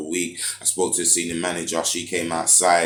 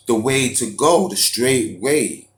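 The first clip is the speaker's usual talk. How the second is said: getting angry; 5 semitones higher, 6 dB louder, slower than usual. Real, not acted. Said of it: "I'm actually getting angry".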